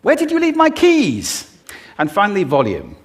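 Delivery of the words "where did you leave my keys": very high, loud exasperated question; high-pitched exasperated demo; rising pitch. Shown as a demonstration. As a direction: shoot the pitch way up in alarm. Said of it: "you can do it just with pitch".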